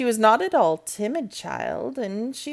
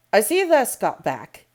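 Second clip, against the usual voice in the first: station master's broad Yorkshire, a little higher and louder; Yorkshire accent; 3 semitones higher, 6 dB louder than usual. A narrator's reading. Station master greeting Medlock, broad Yorkshire accent. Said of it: "pronouncing his words in a queer, broad fashion".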